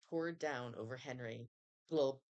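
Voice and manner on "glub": glub. A narrator's reading. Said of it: "said Henry".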